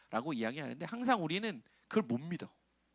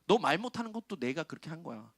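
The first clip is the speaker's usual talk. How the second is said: God speaking; 4 semitones higher than usual. Retold or imitated. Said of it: "그러면서 그래".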